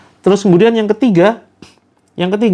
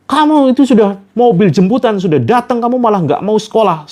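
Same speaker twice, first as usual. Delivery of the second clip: angry father; 5 semitones higher than usual. Retold or imitated. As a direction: scold the child who refuses school. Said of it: "ayahnya semakin marah". (ayah membentak anak yang tak mau sekolah)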